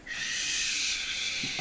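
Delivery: soft unvoiced shush. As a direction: hush them like a bird. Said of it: "Both of them go".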